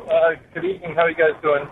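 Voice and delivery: distant speakerphone sound; phone held away. Real, not acted. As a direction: caller far from the phone. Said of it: "can you please speak directly into the phone".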